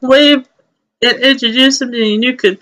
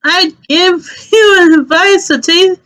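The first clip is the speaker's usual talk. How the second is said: breathless Omi; 3 semitones higher than usual. Acted. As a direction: gasp it out after running. GM voicing Omi the chef.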